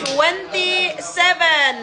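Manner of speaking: slow, stretched number call; announcer's lingering call; bingo caller. Real, not acted. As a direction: draw the number out for the players.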